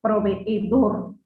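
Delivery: "Proveedor" drawn out slowly, syllable by syllable, double e held; slow syllable demo. Shown as a demonstration. Teacher spells out syllables for the class, slowly. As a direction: stretch "Proveedor" so each syllable is heard. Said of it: "En este caso es proveedores".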